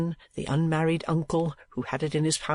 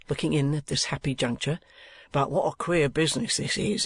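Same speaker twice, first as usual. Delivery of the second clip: lightly voiced Crowl. Lodger intrudes to gossip about Noggs, lightly voiced. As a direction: chat it over, lightly voiced.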